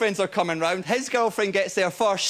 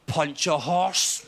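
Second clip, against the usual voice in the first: slow, lightly sinister delivery; evil inner voice; 3 semitones lower, much slower than usual. Acted. Drunk man answering a dare, slow evil voice. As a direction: draw it out like a wicked suggestion. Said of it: "you know that evil voice you sometimes get".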